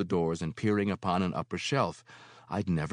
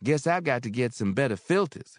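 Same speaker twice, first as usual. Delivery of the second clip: musing; 7 semitones higher, 6 dB louder than usual. Acted. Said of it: "she mused".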